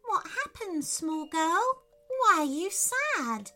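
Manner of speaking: high little voice full of concern; concerned, empathetic. A narrator's reading. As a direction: ask gently with empathy, pitched high. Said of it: "asked her with concern and empathy".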